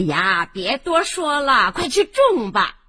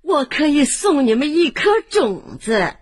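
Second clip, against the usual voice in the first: put-on old woman asks the family for water; old granny; 4 semitones lower than usual. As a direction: speak like a gentle grandmother. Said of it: "是老婆婆".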